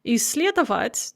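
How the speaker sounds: Исследовать stressed on the second syllable, сле; early stress. Shown as a demonstration. Teacher showing earlier stress, сле stressed in Исследовать. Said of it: "it remains on the same syllable".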